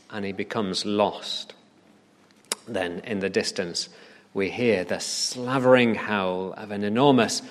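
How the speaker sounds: dramatic scene-setting, dropping low at the ends; suspenseful storytelling. Acted. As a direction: tell it like a mystery tale, with pauses.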